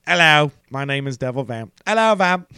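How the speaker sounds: put-on English voice, rising high at the end; Amy. Shown as a demonstration. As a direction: have a playful go at an English accent. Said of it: "trying to do a little Amy".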